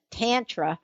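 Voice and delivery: Tantra said lightly in Linda's accent. Shown as a demonstration. Host shows listeners another way to say Tantra, Linda's accent. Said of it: "we will say it with Linda's accent".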